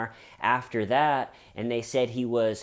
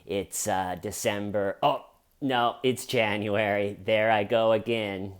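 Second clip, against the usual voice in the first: mock muted star, correcting himself; Alec Baldwin. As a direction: address followers in a subdued, fumbling voice. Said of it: "Alec posted a video where he was like".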